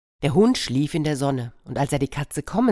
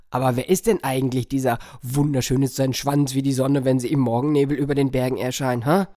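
puzzled farmer; faster than usual. Acted. Farmer puzzling over name.

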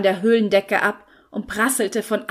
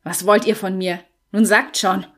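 growled; 4 dB louder than usual. Acted. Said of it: "knurrte George".

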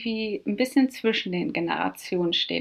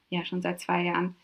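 retold answer; 4 semitones lower, 8 dB quieter than usual. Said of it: "haben gesagt".

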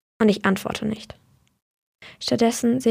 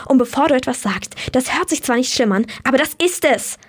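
shouting; 3 semitones higher than usual. Acted. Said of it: "Die letzten Worte schreie ich".

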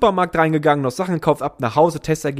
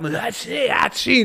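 imitated sneeze; 7 semitones higher, slower than usual. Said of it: "weil ich niesen musste".

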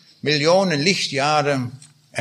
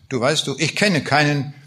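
a reader lightly voicing Beckmann's bitter accusations against God; bitter, understated drama reading of a war-weary soldier; dramatic reading. Reads Beckmann and God dialogue.

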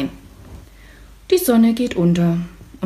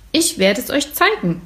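calling out; 6 semitones higher than usual. Acted. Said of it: "ruft Florian".

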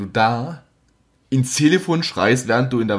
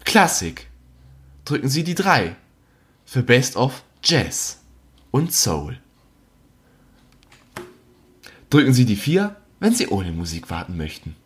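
phone menu voice. Retold or imitated. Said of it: "kurze Pause kam dann".

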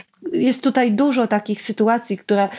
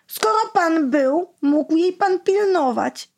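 higher, slow snide retort; snippy mother; 8 semitones higher, slower than usual. Acted. Mother interrupting Basia's dad, snide. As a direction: cut him off with a sneer. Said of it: "przerwała mu mama chłopca".

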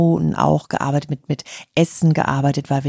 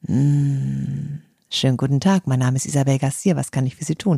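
customer service voice. Shown as a demonstration. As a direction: hum first, then greet calmly.

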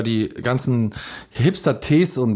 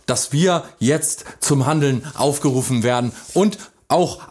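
politician speech. Pretend.

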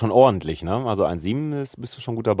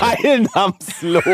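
mock shout; 8 semitones higher, much slower than usual. Mock referee title, shouted laugh. (gespielt lauter Ausruf)

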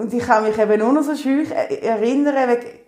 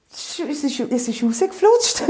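laughing; 4 semitones higher than usual. Real, not acted. Laughing while retelling the birth.

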